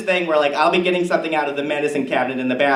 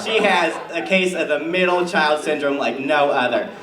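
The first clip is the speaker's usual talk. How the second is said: Tammy Kirscher character. Acted. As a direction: play a chatty suburban mom comic. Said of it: "please give it up for Tammy Kirscher".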